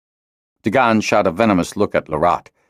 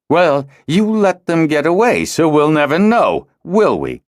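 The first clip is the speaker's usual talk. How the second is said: higher, louder, slow scathing sneer; scathing retort; 11 semitones higher, 5 dB louder than usual. A narrator's reading. Dagan blaming the wing leader, scathing and loud. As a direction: lash out with contempt. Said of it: "Dagan retorted scathingly".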